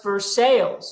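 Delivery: "Versailles" said as "ver-SALES"; American mispronunciation. Shown as a demonstration. Comic names a Kentucky city, "Versailles" said as "ver-SALES". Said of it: "that is pronounced".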